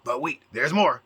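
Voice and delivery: lightly voiced TV salesman, mocking; a hint of an infomercial announcer; mock infomercial pitch. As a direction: tease it like a late-night ad pitch. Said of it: "A perpetual state of fucking".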